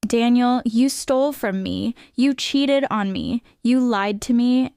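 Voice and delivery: wife confronting her cheating husband, slow and cold; cold accusation. Acted. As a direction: lay out each betrayal slowly.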